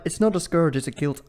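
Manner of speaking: loosely faked Scottish accent; indignant mock-Scottish correction; attempted Scottish accent. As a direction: have a wobbly go at sounding Scottish. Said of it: "I don't know what that accent was".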